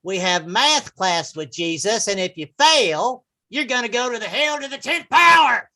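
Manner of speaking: mock preacher promo rising to a shout; radio program announcer. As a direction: announce the lineup like an evangelist. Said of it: "some interesting programs about Jesus".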